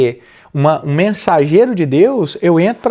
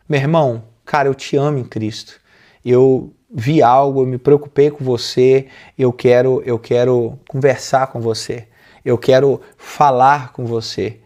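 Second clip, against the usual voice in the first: gentle caring approach; 4 semitones lower than usual. Shown as a demonstration. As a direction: lightly show how to talk lovingly to a brother. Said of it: "Tem jeito de falar".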